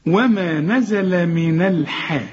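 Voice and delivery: drawn-out, thin light letters in من الحاء; light noon and haa. Shown as a demonstration. Teacher shows student the correct way, slow light noon in من الحاء. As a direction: recite slowly, keep من الحاء light. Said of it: "أولًا النون دائمًا مرققة".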